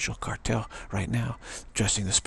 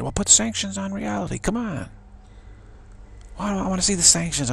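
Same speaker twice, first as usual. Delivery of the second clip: mocking dare; 10 semitones higher, 3 dB louder than usual. Daring the cartel to act.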